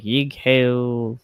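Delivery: put-on gruff old-timey chant; medieval talk. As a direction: bark it like a medieval warrior. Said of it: "Like a medieval times talk".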